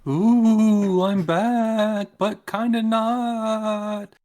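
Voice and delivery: high, loud, drawn-out ghostly moan. Pretend. Ghost Litro announces spooky return.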